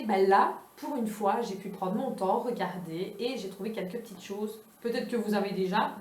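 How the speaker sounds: ordinary delivery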